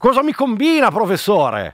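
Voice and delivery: hammed-up teasing TV ambush; Staffelli. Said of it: "faccio Staffelli".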